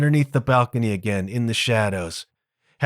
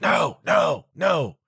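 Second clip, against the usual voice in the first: higher, hurried protest; flustered refusal; 4 semitones higher than usual. Retold or imitated. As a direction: stop him in a panic. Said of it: "he's like".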